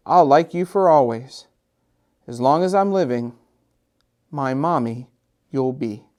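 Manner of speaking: gentle read-aloud storytelling voice; story narration. A narrator's reading. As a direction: read it like a bedtime picture book to children. Reads picture book aloud.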